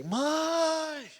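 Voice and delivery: high, shrill call of "mãe!" across the house; child's high call "mãe!"; calling out for mom. Retold or imitated. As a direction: yell for your mother like a panicked child. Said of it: "Aí eu gritei".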